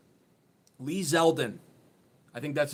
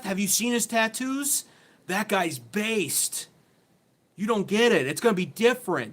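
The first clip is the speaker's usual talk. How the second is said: higher pitched, gushing mock enthusiasm; sarcastic fan voice; 4 semitones higher than usual. Streamer mocking Trump supporters' hopes, in a sarcastic higher voice. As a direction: play the naive believer, laying the sarcasm on thick.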